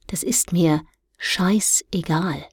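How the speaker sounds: slow, hushed whispered shrug; dismissive aside. Acted. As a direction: toss it off in a whisper.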